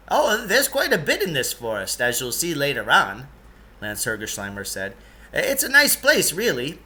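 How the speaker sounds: a hint of a fussy eccentric guide; Lance's voice. Lance voiced in read story.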